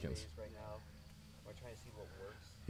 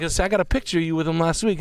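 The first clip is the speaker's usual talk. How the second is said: much higher and louder hammed-up tough-guy grilling; mock Steven Seagal interrogation; 8 semitones higher, 6 dB louder than usual. Friends joking, Seagal-style interrogation, loud and high. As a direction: lean in and grill the informant, over the top. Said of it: "It's like".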